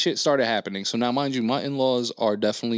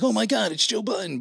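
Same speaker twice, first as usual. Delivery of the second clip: much higher, a fan gasping at a celebrity; mock starstruck; 10 semitones higher than usual. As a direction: squeal it like an excited fan. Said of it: "me being like".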